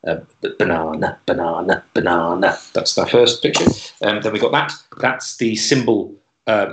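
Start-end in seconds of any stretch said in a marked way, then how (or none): 0.1-2.6 bouncy off-beat "banana" with jerky accents; "banana" bounced in syncopated rhythm. Shown as a demonstration. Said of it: "it's syncopated".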